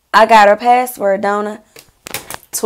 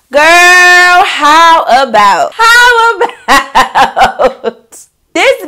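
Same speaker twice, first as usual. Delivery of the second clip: slow, loud, high words broken by laughter; laughing in disbelief; 6 semitones higher, 5 dB louder, much slower than usual. Real, not acted. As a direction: laugh through it, can't believe it. Laughing at friend's betrayal.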